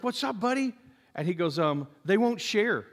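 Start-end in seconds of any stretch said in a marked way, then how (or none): 0.0-0.7 put-on higher-pitched, gentle check-in with a child; concerned parent voice. Dad asks his crying four-year-old, in gently raised pitch. 2.0-2.8 lightly voiced little kid complaint, higher pitch; a hint of a hurt four-year-old; imitated upset child. Dad mimics his tearful son complaining to parents, lightly childlike. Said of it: "came back crying".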